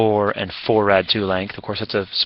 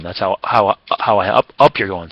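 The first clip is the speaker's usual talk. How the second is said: stuttering. Real, not acted. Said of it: "Sorry, stuttering on there".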